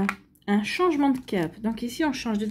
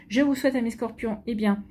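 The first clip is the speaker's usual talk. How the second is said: suppressing hiccups. Real, not acted. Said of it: "excusez-moi, j'ai le hoquet".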